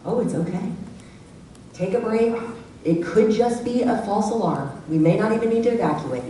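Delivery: calm green voice. Retold or imitated. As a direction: keep it easy through a fire alarm. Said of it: "they're gonna be like".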